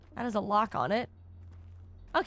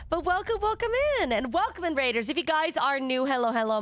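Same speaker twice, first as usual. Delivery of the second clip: cute anime streamer; 4 semitones higher than usual. Acted. Streamer intro to new viewers.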